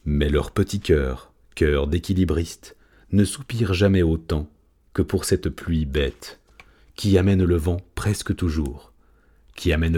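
poetry read with care; gentle recital of verse. A narrator's reading. Poem read aloud by the human.

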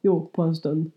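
drawn, curt northern reply; Norrland accent. Retold or imitated. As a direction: answer like a laconic northerner. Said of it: "på norrländska som är så här".

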